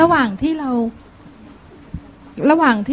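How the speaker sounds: speaking up. Real, not acted. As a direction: repeat it clearly so the room can hear. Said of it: "เอาไมค์ใกล้ๆหน่อย มันจะไม่ได้ยิน".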